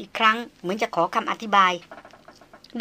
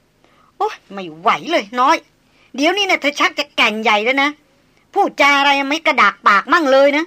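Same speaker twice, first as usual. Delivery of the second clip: louder, higher mock complaint; exasperated grumble; 4 semitones higher, 6 dB louder than usual. A narrator's reading. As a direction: shake your head and scold her. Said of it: "ชายันโคลงหัวบ่นว่า".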